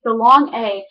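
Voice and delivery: long flat A, Chicago style; Chicago accent. Shown as a demonstration. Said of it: "let's go to the Chicago accent".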